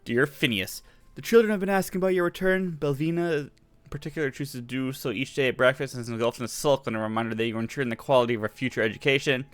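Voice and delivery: brisk letter reading; reading a letter aloud. Acted. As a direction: read the letter quickly, lightly. Reads letter aloud in game.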